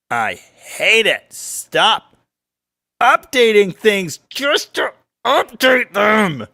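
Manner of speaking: slow, emphatic, rising into a shout; exasperated rant. Real, not acted. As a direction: build from annoyance to a high, loud plea. Rant about apps constantly updating.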